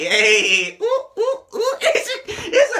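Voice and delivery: loud and laughing, high squealed oohs; laughing hype. Real, not acted. Hyping the track to chat, laughing loudly. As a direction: laugh through your excitement over the beat.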